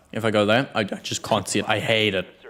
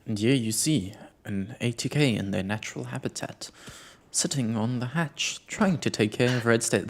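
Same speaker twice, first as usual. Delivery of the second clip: nature documentary; 6 dB quieter than usual. Pretend. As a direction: narrate the player like a nature film. Mock wildlife narration of player.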